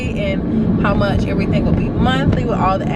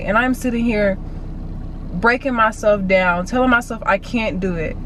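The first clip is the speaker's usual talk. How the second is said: self pep talk; 3 semitones higher, 3 dB louder than usual. Real, not acted. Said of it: "preaching to herself on clip".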